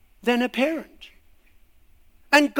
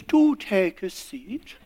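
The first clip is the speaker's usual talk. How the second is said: posh Queen; 3 semitones lower, slower than usual. Acted. The Queen invites politely.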